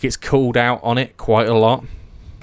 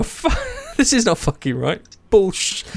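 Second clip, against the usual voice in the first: put-on high, laughing sweary old lady rant; 10 semitones higher than usual. Imitating the UN lady swearing mid-meeting, high and laughing. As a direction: rant like a foul-mouthed grandmother, half laughing. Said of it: "And I'm".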